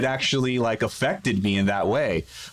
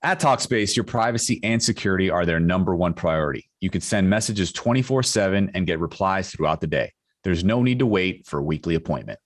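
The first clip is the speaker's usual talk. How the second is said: measured, lower podcast ad voice; sponsor ad read; 5 semitones lower than usual. Acted. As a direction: read the sponsor copy evenly and clearly. Podcast host reads sponsor ad.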